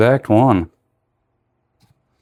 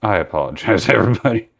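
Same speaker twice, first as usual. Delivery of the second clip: laughing apology; faster than usual. Real, not acted. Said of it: "long day".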